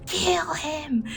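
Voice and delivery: high, far-off yell; dark lord yelling at his servant; yelled command. A narrator's reading. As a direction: yell it from inside the head. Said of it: "Voldemort's yells".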